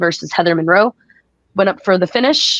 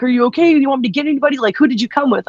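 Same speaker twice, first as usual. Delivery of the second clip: freaking out; 5 semitones higher, faster than usual. Retold or imitated. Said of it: "he starts freaking out any more, even more".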